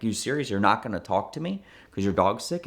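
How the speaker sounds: mock rude disbelief, lightly voiced; a hint of a rude, incredulous collector. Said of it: "like, a rude way".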